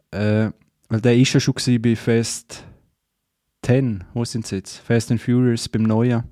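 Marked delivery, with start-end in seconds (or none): none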